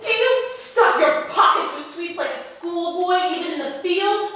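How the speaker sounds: high, laughing astonishment; lady laughing at the soldier's chocolate; laughing disbelief. Acted.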